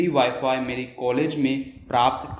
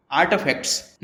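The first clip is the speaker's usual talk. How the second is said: आर्टिफैक्ट्स with a half-spoken American T; American आर्टिफैक्ट्स, T barely touched; US accent. Shown as a demonstration. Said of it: "हम यहाँ ट को आधा ही बोलते हैं". (अमेरिकी लहजे में आर्टिफैक्ट्स)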